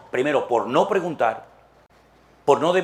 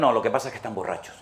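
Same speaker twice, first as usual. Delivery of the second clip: quick, softer dismissive scoff; mocking scoffers; 5 semitones lower, 4 dB quieter, faster than usual. Scoffers at Pentecost quickly dismissing the believers as drunk. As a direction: brush it off with a sneer.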